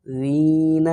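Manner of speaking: زین said softly with a light dhal, no added a; soft dh sound. Shown as a demonstration. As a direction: say زین gently, not "زینہ". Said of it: "نرمی سے".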